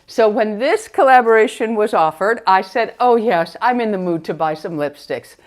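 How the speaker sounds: muffled through a face mask; talking behind a mask. Real, not acted. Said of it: "let's go ahead and remove the mask".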